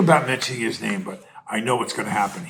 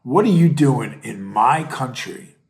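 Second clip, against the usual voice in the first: mock indignant; 3 semitones higher, 6 dB louder than usual. Voicing a Mexican local confronting the protester, indignant. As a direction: demand it like an offended local. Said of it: "He said".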